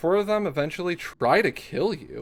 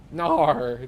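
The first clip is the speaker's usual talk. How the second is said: giggly mock Aussie "no"; imitated Australian accent on one word. Streamer giggling over the Aussie no, mock Australian accent. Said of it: "it's just the accent".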